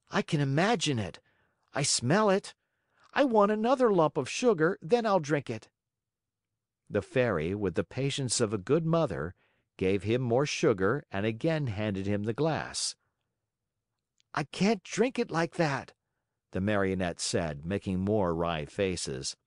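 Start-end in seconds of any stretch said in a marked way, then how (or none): 0.1-5.7 put-on high, whining little boy; whiny child. Puppet bargaining for sugar. 14.3-15.9 put-on whiny child. Puppet refusing again.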